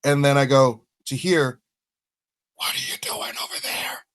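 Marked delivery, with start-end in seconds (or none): 2.6-4.0 breathy, voiceless stage whisper; whispered call. Acted. Dentry calls over to the false Jackson, in a stage whisper. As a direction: whisper it as if calling across a room.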